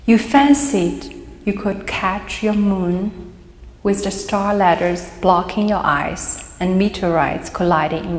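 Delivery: deliberate poetry reading with pauses; poem reading. Acted. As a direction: read verse line by line, letting it quieten. Reads own poem aloud.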